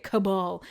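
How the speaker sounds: Cabal stressed on the last syllable; settled ca-BAL. Shown as a demonstration. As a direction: say Cabal as ca-BAHL. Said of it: "I'll start saying it".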